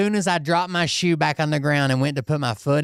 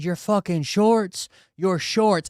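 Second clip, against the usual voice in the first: slow, raised-pitch mock outrage; retold indignation; 5 semitones higher, slower than usual. Soaked rider answering brother-in-law's complaint, retold indignation. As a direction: throw it back in slow, mild disbelief. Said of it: "And I said".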